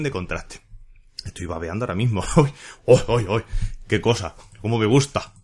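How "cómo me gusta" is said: plain own exclamation of delight; just enjoying the tea, in his own voice. Real, not acted. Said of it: "diría la humana".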